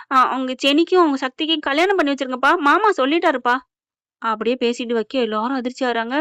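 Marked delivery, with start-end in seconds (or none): 0.1-3.6 slightly raised imitation of a daughter on the phone; a hint of another woman's voice; lightly acted phone plea to father; Tamilselvi's voice. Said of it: "Tamilselvi குரல்ல பேசுதுங்க".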